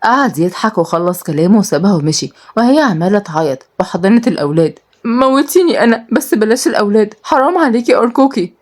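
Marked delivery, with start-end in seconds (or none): 5.0-8.5 pleading. Acted. Nour begs for children.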